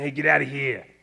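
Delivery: loud put-on Boston accent. Acting out the people in the text, in a Boston accent. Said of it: "I'm not sure why I did the Boston accent there".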